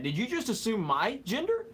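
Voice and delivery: rising, indignant meme question; mock outrage. Streamer teasing a chatter, mock outrage. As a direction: play the offended meme as a joke. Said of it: "I'm kidding".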